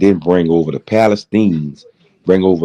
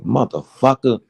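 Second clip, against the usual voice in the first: angry curse; 6 semitones higher than usual. Retold or imitated. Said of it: "the other two saw that strength and said".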